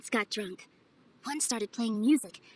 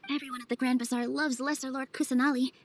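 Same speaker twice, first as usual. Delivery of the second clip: Paimon voice. Acted. Paimon's voice, high and far.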